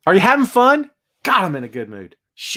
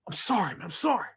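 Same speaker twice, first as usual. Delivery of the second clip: sheepish apology; 10 dB quieter, faster than usual. Retold or imitated.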